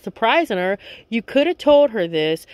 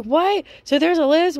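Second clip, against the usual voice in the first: higher-pitched imitated disbelief; mock disbelief; 7 semitones higher than usual. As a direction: play her stunned "a list?". Girlfriend learns others knew.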